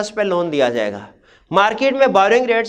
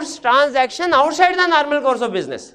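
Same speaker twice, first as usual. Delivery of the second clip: slow term dictation; 3 semitones higher, much slower than usual. Shown as a demonstration. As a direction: spell out transaction outside the normal course of business word by word, very slowly. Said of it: "उससे हम कहते हैं".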